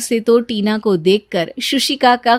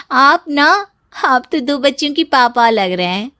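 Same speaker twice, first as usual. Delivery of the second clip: playful teasing; 4 semitones higher than usual. Acted. Tina teases Ravi that he looks like a father.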